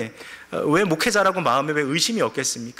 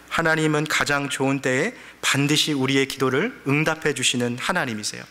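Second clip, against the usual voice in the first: normal talking voice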